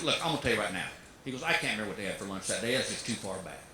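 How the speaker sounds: put-on low, fast, gruff old father; lightly voiced country dad. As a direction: rattle it off like a stubborn old man. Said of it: "not even disguising my voice".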